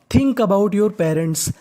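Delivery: drawn-out Think about your parents; teacher's slow read-aloud; slow model reading. Shown as a demonstration. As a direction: read the phrase slowly for students. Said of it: "teacher reads phrase slowly".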